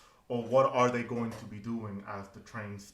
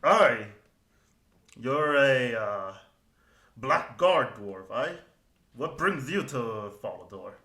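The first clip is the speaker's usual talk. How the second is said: hearty dwarf, a bit louder at first; gruff dwarf; 5 dB louder than usual. Acted. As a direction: greet a stranger with curiosity. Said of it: "he looks over to you and goes".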